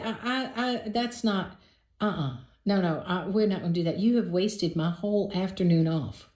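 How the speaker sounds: mildly put-out, stammering objection; offended refusal. Retold or imitated. Host refuses to let her date stay over, mildly offended. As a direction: stumble into a firm, offended no. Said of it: "I'm offended and put out".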